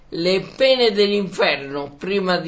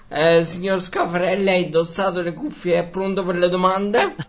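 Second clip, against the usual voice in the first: Mike Bongiorno. Acted. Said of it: "prendo un aspetto più stile Mike Bongiorno, quindi con compostezza".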